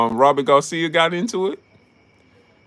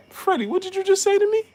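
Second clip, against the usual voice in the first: mock Robert Garcia. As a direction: drag out the challenge in a high put-on voice. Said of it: "go watch that clip".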